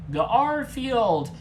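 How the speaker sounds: high loud cry for help; desperate shout. A narrator's reading. Injured Geth cries out to Garfield, loud and high. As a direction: call out in panic. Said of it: "crying for help".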